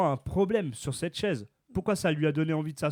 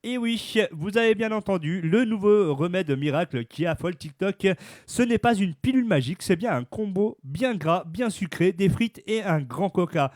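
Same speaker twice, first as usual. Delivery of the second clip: news read; 2 semitones higher, 3 dB louder than usual. Acted. Reads the news item aloud.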